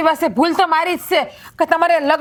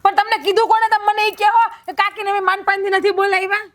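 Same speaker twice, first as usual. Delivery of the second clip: raised voice; 5 semitones higher than usual. Acted. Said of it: "આમ રાડ્યું રાખો મારી સામે".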